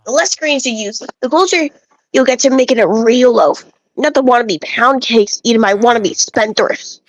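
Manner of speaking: a lightly voiced village know-it-all, preachy about grain; bread-obsessed villager. Lightly voiced villager lecturing the player about bread, smug. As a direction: play a self-important bread snob lecturing a traveler.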